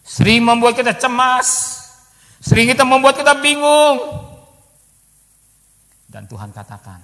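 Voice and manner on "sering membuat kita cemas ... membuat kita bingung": loud, high preaching; preaching at full force. Acted. Preacher loudly naming fears to the church. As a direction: burst out to the hall.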